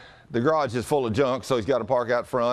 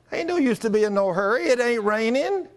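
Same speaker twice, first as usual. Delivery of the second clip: lightly voiced stubborn husband, higher pitch; 11 semitones higher than usual. Husband refusing his wife's urging to hurry, mock stubborn.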